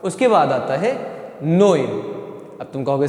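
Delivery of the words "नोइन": put-on नोइन with "oy" as in "boy"; German pronunciation. Shown as a demonstration. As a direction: model नोइन as "noyn". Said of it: "ओ ए करके आवाज़ आएगी".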